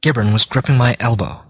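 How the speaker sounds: plain reading voice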